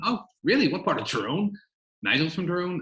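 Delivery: quizzing him, thrilled at the coincidence; excited disbelief. Retold or imitated. Director retelling his delighted questions at the casting, excited. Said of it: "And he's like".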